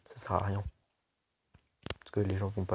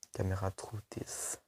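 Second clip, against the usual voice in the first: slow, softer put-on English accent on the camera name; mock English accent; 4 dB quieter, slower than usual. Listing tablet camera specs to viewers, jokey English accent. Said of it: "Vous avez vu mon accent anglais".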